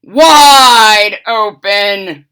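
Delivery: loud, slow, drawn-out command; wife yelling at the fox; yelled. Acted. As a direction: stretch the words out loud. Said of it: "yelled his wife".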